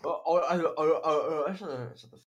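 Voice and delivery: stammered mock grunting; mocking imitation. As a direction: mimic him tripping over his words. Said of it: "that's what you sound like".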